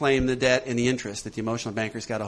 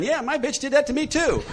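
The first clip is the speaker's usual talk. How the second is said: mock co-signer; 12 semitones higher than usual. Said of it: "their characters are jumping up".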